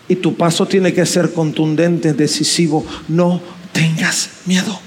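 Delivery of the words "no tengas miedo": calm their fear, slowly and gently; tender reassurance. Acted. Preacher consoling the congregation.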